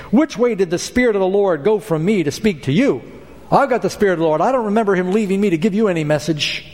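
lightly mocking challenge to a rival; touch of sarcasm, quickening toward the end; mildly sarcastic. Zedekiah challenging Micaiah after striking him, mildly sarcastic. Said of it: "then he says sarcastically".

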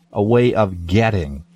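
getting leaned on a little; stress on getting. Real, not acted. Pastor gently stressing getting in a talk, a little weight on getting. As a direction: lightly stress the word getting. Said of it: "And I emphasize that word getting".

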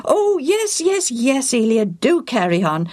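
high, eager assent easing down; eager urging. Acted. Priest begs Eliad to carry on his story, eagerly. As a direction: jump in and urge him on.

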